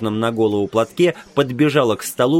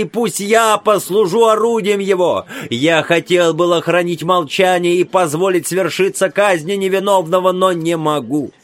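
put-on frail old man; 6 semitones higher than usual. A narrator's reading. Old man pleads for son.

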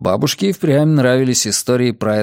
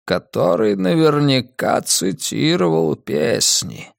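old man voice, a hint of pleading; slow, coaxing old man; 4 semitones higher, slower than usual. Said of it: "В его голосе прозвучали странные нотки".

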